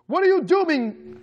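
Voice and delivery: slow, high-pitched outraged cry; screamed question. A narrator's reading. Brother pushing his mother back, screamed question. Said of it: "he screamed".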